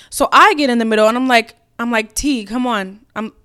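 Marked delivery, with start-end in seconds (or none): 2.1-3.0 calm, steady plea to a friend; calm appeal. Retold or imitated. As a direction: say it evenly, coaxing. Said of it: "in this tone exactly".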